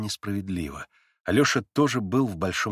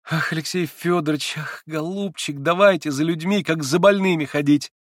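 put-on higher, louder girlish voice; eager young woman pressing her point; young Lise; 7 semitones higher, 3 dB louder than usual. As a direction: play the agitated young girl Lise. Lise's exclamation.

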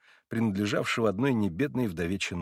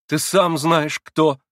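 higher, louder, forced out gasping; louder, breathless cry of сам; breathless outburst; 6 semitones higher, 8 dB louder, much slower than usual. A narrator's reading. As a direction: it bursts out of him, out of breath. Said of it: "бессильно вырвалось у него, он задыхался".

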